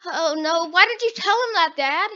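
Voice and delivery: quick, exasperated kid's complaint, played up; hammed-up upset scolding; acted dismay. Voiced child scolding her dad.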